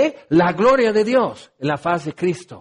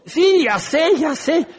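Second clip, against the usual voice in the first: laughing weary reply; 7 semitones higher, slower than usual. Retold or imitated. Weary blind man answers.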